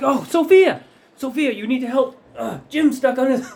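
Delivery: high, urgent cry for help; panicked pirate. Acted. Pirates begging Sophia to help free Jim, high and urgent. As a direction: call out in a high, hammed-up pirate voice.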